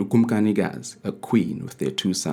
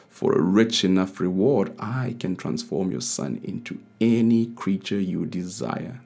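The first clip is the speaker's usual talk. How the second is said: lightly voiced sly old witch; cackling witch. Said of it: "the witch cackled".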